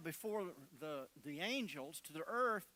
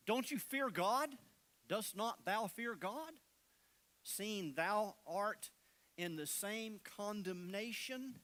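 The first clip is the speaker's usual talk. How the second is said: raised rebuke; 2 semitones higher than usual. Acted. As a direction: call him out sharply across the crosses. Thief rebukes the other thief.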